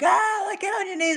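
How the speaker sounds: imitating a soldier's shouted command; soldiers yelling. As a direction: bark the order like an angry soldier.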